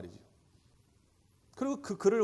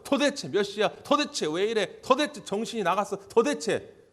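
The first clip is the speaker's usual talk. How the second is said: loud exasperated retold quarrel; hammed-up parental row, shouted higher; quarrelling parents; 5 semitones higher, 6 dB louder than usual. Parents yelling at each other in front of their child, loud and exasperated.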